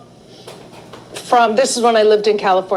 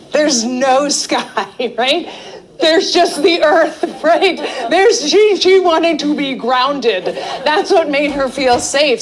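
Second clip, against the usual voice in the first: laughing; 4 semitones higher than usual. Real, not acted. Delighted realization about drawing.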